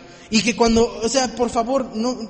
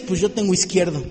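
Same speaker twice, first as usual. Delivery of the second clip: God's reply; 5 semitones lower than usual. Retold or imitated. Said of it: "Y dice Dios".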